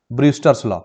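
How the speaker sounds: whispered aside, like a secret tip; hushed emphasis on a key topic. Acted. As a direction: breathe the name out without voice. Teacher drops the topic name.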